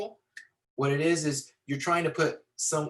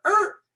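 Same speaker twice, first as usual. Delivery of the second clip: sudden high, loud screech noise; short high-pitched "er" screech; imitated tire screech; 7 dB louder than usual. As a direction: mimic brakes squealing to a halt. Imitates car screeching to stop.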